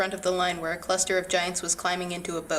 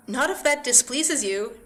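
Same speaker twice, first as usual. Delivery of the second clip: frightened cry; 5 semitones higher, 4 dB louder than usual. A narrator's reading. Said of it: "Diedrich cried".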